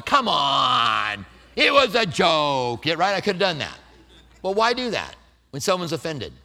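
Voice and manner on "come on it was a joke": dismissive brush-off. Pretend. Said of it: "I very easily could have gone".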